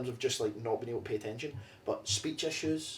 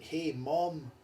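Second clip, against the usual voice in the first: put-on a light American accent, as a Scottish kid would put it on; mock American kid asking about the trash can; imitated American kid accent; 2 semitones higher than usual. Scottish kid asking mom in American accent. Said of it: "speaking in American accents".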